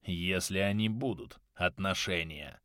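low, soft whisper. A narrator's reading. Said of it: "прошептал Хильвар".

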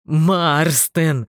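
loud, drawn-out name; urgent loud call. A narrator's reading. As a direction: shout to rouse a friend. Calling unconscious friend.

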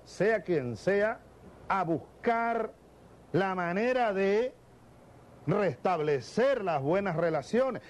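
slow, syrupy mock-conciliatory politician; sheep's clothing. Mimicking Santos courting votes, slow mock sweetness. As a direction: drag it out like a wolf feigning meekness. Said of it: "quiere vestirse con una piel de cordero".

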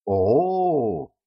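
drawn-out amazed "ooh"; a girl's wide-eyed ooh of wonder; surprised oh. A narrator's reading. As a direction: stretch the oh in mild awe. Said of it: "округлила глазки Катран".

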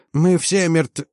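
high panicked cry, cut off; hysterical cry. A narrator's reading. Chief mechanic cut short by slap, hysterical. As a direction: break off mid-word in rising panic. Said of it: "вскричал Стармех истеричным голосом".

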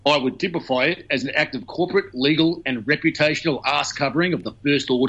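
lightly voiced pompous Australian lawyer; a hint of a stuffy senior lawyer. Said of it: "I'll give this senior Australian lawyer voice".

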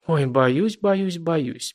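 mocking. A narrator's reading. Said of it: "передразнила Рита".

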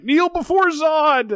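booming, slow, high villain command; dark lord. Retold or imitated. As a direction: roar it like a conquering tyrant. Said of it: "And I'm like".

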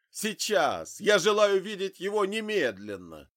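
loud, high furious demand; exploding. A narrator's reading. Grieving father demands to see his son now, furious outburst. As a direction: blow up, tearful with rage. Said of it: "взорвался мужчина".

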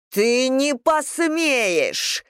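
high, very slow snarl of rage; growled. A narrator's reading. Mother threatens her daughter, slow furious growl. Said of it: "прорычала она".

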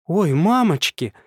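high, loud, slow frightened cry; frightened squeal. A narrator's reading. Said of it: "испуганно взвизгнула девушка".

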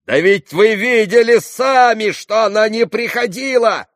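high, loud exasperated shout. A narrator's reading. Ivan shouting at his father, high and loud. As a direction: yell it to make him hear. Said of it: "кричал Иван".

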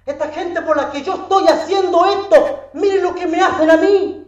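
high, pained plea of the weeping Christ; tearful lament. Retold or imitated. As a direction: lament loudly, as if crying. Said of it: "Él iba llorando porque decía". (lamento agudo y doliente, como llorando)

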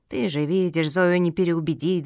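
mild, lightly voiced grumble; grumbling. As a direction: grumble with weary resignation. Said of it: "заворчала Матильда".

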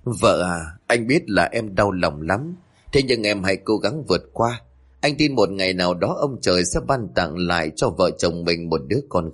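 a husband comforting his grieving wife, gently and tenderly; gentle comfort. Acted. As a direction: ease her grief gently. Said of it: "anh nhẹ nhàng an ủi cô".

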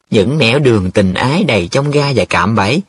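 lightly theatrical mimicry; teasing, drawn melodramatic echo; mock cải lương recitation. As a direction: quote his words like a folk-opera line. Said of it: "y chang như mấy tuồng cải lương".

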